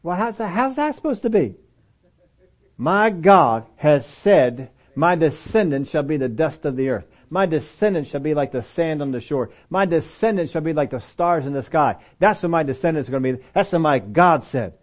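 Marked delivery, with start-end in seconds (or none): 2.8-14.7 steady declaring of God's word; bold declaring. Shown as a demonstration. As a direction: proclaim every line as a promise. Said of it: "He's gotta start talking like this".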